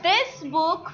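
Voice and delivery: slow exercise read-aloud. Shown as a demonstration. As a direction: drag each word out, loud. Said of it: "teacher reads exercise slowly".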